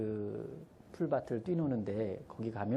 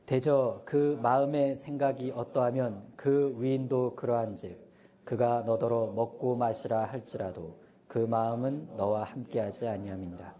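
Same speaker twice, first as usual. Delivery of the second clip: slow, louder congregational reading; slow, louder Bible reading in unison; scripture read aloud; 3 dB louder than usual. Real, not acted. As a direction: read the verse aloud with the church. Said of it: "큰 소리로 같이 읽겠습니다".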